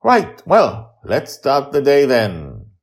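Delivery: put-on high, loud, slow girl; a girl moving on happily; Joy starts the day, high and bright; cheerful little girl. A narrator's reading.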